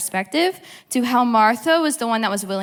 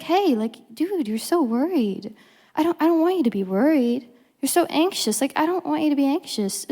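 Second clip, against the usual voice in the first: not condescending, caring; 4 semitones higher than usual. Acted. Jesus kindly reassuring worried Martha, caring and uncondescending. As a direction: ease her worry without talking down. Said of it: "No, he's like".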